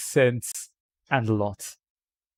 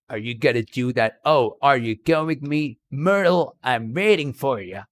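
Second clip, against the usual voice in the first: mock American accent. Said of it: "that kind of an accent".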